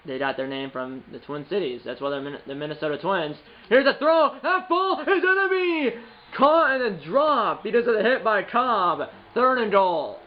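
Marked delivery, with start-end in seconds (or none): 3.7-10.2 high, drawn-out announcer call; play-by-play call. Acted. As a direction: stretch the call as the ball arrives. Calling his own pass.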